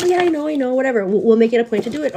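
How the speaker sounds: high, breezy "I know, I know, whatever"; mock dismissive brush-off. Retelling the dismissive teacher to viewers, airy mock brush-off. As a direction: wave it away like it's nothing.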